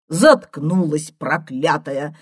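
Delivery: granny cursing the noisy washing machine, vexed; angry outburst. A narrator's reading. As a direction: snap at it in vexation, drawn out. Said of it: "Бабаня в сердцах".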